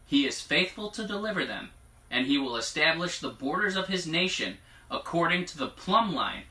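measured declaration, lifting on key phrases; prophetic proclamation. Acted. Reading God's word to the congregation, prophetic proclamation. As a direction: read it out as a solemn promise.

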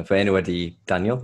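Welsh; speaking Welsh. Shown as a demonstration. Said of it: "My name is Daniel".

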